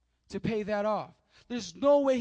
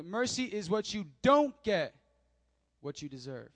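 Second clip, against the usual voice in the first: deliberate, with a pause before "what you deserve"; slow repeat. Shown as a demonstration. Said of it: "I'll say it one more time slowly".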